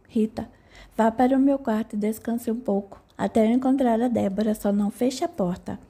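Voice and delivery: gentle, friendly, lightly tender. Acted. Psychologist soothing a frightened young woman, tender. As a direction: soothe her kindly, softening the end. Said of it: "entonação mais terna e amigável".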